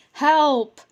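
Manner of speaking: shrill-free loud yelp, pitch jumps up; cry for help. Acted. Goblin yelping for help as a bee attacks, loud cry. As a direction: yelp it out in alarm.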